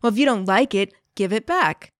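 mildly put-out, huffy retort; a touch of huffy dismissal. Acted. Siren answering the player in a mildly huffy way. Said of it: "a very huffy feeling in response".

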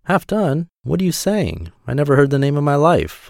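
high-pitched disbelieving mouse; incredulous storybook mouse, pitched well up; astonished mouse. A narrator's reading.

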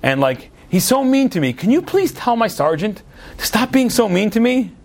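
lightly voiced whining private; whiny private. Private complaining to the Tsar about his sergeant, mild whine.

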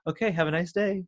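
imitated carefree goodbye; nonchalant. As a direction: sign off breezily, as if unbothered. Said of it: "like, really nonchalant".

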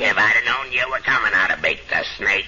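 lightly voiced gravelly-free frog puppet; quick cheeky puppet voice; Froggy voice. Froggy sings the song title.

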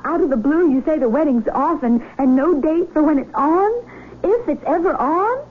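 indignant questions rising in pitch; hurt indignation. Acted. Fiancée challenges the man calling off their wedding, hurt and indignant. Jilted fiancée reacts, told not be angry.

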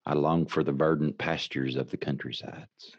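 a hint of smooth sultry croon. Shown as a demonstration. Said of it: "it's my smooth country sultry voice".

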